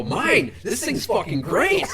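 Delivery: high, loud, triumphant comeback; gleeful shouted boast. Retold or imitated. Prankster answering an angry man at the urinal, loud boast. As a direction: crow it proudly, near laughter.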